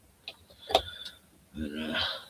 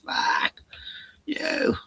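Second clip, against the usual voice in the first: sudden loud, high indignant cry; indignant outburst; 12 semitones higher, 6 dB louder than usual. Real, not acted. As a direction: shout it out, fed up with the noise. Ranting about Sunday noise.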